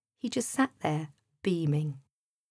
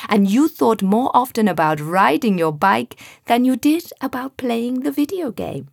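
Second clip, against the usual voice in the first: louder, kindly genie voice; a patient genie explaining to a boy; friendly genie; 3 semitones higher, 7 dB louder than usual. A narrator's reading. Genie Sam explains the wish.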